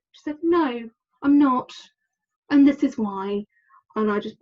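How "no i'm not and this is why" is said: slow, higher, louder confrontation; furious retort. Retold or imitated. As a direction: lay it down slowly, boiling over. Angry confrontation after work.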